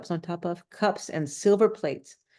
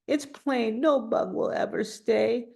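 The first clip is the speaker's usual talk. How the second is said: slow, high, sad sigh; sadly sighed; 5 semitones higher than usual. A narrator's reading. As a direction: sigh it out, heartbroken. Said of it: "and sadly sighed".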